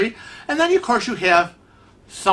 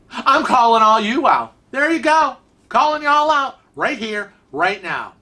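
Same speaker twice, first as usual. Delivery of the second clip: high, raised voice, calling people out; playful call-out; 6 semitones higher than usual. Real, not acted. Calling out the superior friends who correct, high playful call-out. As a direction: announce it high and emphatic to the whole crowd.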